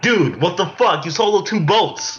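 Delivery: high, slow incredulous delivery; hammed-up exasperation, pitched high; exasperated mock God. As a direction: play God scolding in drawn-out disbelief. Acts out God's exasperated reply.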